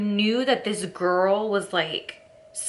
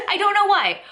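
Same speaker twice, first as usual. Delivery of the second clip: much higher and louder through laughter; laughing; 11 semitones higher, 5 dB louder, faster than usual. Real, not acted. Vlogger laughing at herself, words through giggles.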